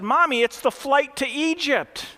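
put-on a kid patiently telling her mom the answer; matter-of-fact little girl. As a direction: explain it like it's obvious, little girl. Girl quoted in joke story.

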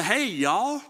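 put-on light Southern accent on Hey, y'all; a casual Southern drawl-free Hey, y'all, lightly Southern accent; Southern greeting. Pastor showing how Southerners greet, light Southern accent. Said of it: "if you're from the South".

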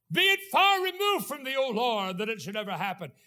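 Peter blurts out his objection; protesting Peter. Acted. Peter rebukes Jesus.

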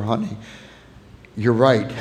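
low, soft fatherly comfort; gently agree, as if holding a child; tender reassurance. Retold or imitated. Father consoles his daughter.

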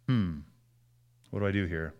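low, soft thinking aloud; pause, then quietly ask yourself; hushed, reflective self-questioning; inward pondering. Shown as a demonstration. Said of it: "it makes me think".

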